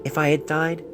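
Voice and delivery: gentle letter voice with a catch of emotion; tender letter reading. Acted. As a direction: read it like a letter to a beloved. Letter read in a character's voice.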